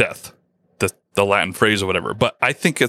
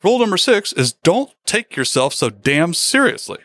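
cheerful reveal; 6 semitones higher than usual. Retold or imitated. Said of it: "the home minister says".

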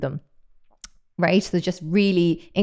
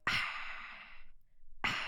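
short whispered hiss like a fizzy can opening; breathy fizz burst, twice; 16 dB quieter than usual. Shown as a demonstration. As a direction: imitate a soda can cracking open. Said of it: "imitating a c-, a can of Coke opening".

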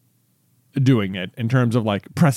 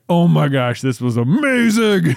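higher, slow gushing delight; 4 semitones higher, 4 dB louder, slower than usual. Retold or imitated. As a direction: savour it, higher and slower. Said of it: "And I was like".

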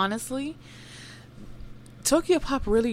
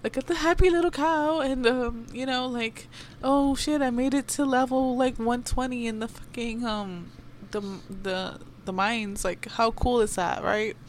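excited gamer; 5 semitones higher than usual. Retold or imitated. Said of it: "be able to relax and be like".

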